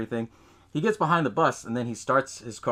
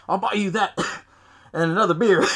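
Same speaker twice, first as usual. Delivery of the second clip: giggly aside; 7 semitones higher, 6 dB louder than usual. Retold or imitated. Absurd diner fight retold.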